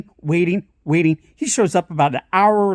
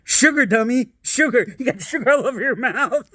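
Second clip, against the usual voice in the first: higher, urgent dad warning; mock dad hiss; 4 semitones higher than usual. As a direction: warn her like a dad with a hushed scold. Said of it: "He's like".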